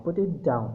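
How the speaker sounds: down said with a falling tune; falling intonation. Shown as a demonstration. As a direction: drop the pitch on down. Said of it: "आवाज़ की pitch कम हो जाती है इस word पे". (down पर गिरती आवाज़)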